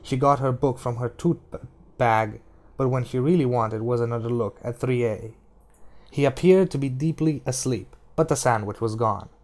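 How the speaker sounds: steady audiobook reading voice over music; story narration. A narrator's reading. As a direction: read the novel aloud, even and measured. Reads The Gunslinger aloud.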